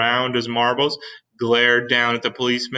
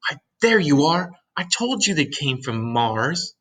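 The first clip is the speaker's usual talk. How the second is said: mild smug aside; 5 semitones higher than usual. Acted. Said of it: "I think he was telling the pe-, his neighbors".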